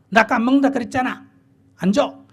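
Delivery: a mother's mock tit-for-tat refusal, fast and loud; spiteful mother. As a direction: play the mother getting even with her child.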